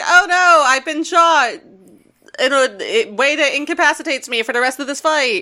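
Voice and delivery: a tongue-in-cheek death line; mock dramatic dying. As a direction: play the shot victim over the top, half laughing. Ratchet shot, hammy fall.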